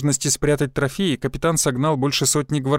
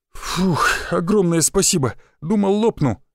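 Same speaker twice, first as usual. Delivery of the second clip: relieved; 4 semitones higher than usual. Acted.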